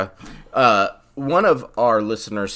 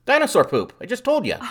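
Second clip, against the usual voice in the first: exasperated; 12 semitones higher, 4 dB louder than usual. Real, not acted. Exasperated repeat of answer.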